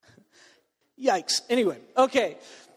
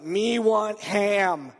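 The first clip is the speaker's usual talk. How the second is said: very slow, labored broken-language order; broken beginner Czech; much slower than usual. Retold or imitated. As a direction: drag out each word like a clueless beginner. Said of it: "my check level was like".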